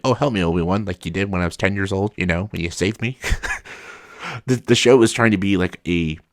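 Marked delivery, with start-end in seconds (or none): 0.0-0.8 mock casual Leia. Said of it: "Not like".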